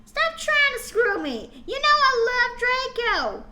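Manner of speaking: laughing mock shout, high; half-giggled yell of refusal. Girl shouting at vampire to stop. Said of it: "I shouted".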